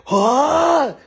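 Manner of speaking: very high, loud cry; shocked yelp. Retold or imitated. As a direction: hit in the face, yelp. Boss smacked.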